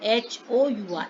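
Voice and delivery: slow, deliberate spelling for the class; letters spelt out slowly for students. Shown as a demonstration. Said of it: "हम बोलते हैं".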